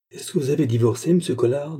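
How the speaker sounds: put-on mildly jeering, cheeky boy; mocking. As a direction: needle him with a mock-innocent question. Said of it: "demanda Rocambole en goguenardant".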